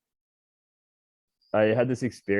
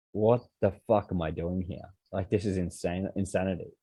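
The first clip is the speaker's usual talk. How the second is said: softer, sobered self-talk; shocked quiet realization; 2 semitones lower, 6 dB quieter than usual. Retold or imitated. Realizing the scared passengers, muttering to himself in shock. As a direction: come back to reality under your breath. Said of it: "I was like".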